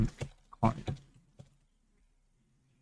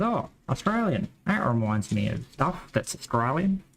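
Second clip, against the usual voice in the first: mock reaction; 2 semitones higher than usual. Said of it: "means that everyone goes".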